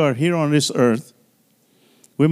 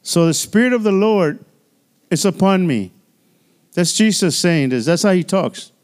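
a lightly raised, measured Bible reading voice; scripture reading; 2 semitones higher than usual. Acted. Reads scripture aloud to congregation.

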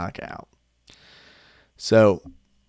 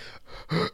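gasp; 8 semitones higher, 6 dB quieter than usual. Retold or imitated.

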